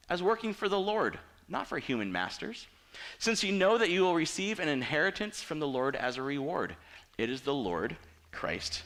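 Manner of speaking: forceful Bible quote, preacher's emphasis on "whatever you do"; scripture reading. Acted. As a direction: proclaim the verse with conviction. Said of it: "He goes on".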